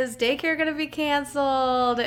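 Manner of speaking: loud, high rant through laughter; loud amused mock-despair; laughing exasperation. Real, not acted. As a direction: rattle off worries while laughing. Laughing list of daily mishaps.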